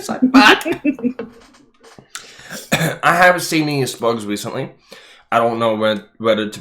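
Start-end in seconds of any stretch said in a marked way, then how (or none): 0.0-0.7 laughing. Real, not acted. Laughing at popcorn in beard. 3.0-4.7 laughing. Real, not acted. Repeats while laughing.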